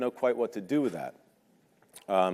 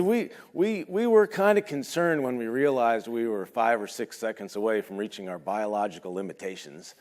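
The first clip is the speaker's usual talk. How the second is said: imitating Dave. Imitating Dave's understatement.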